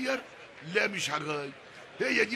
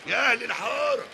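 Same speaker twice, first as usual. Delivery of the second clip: louder call to the neighbourhood; 4 dB louder than usual. Acted. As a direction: summon the whole street. Father calls the whole street. (نداء عالي لأهل الحارة)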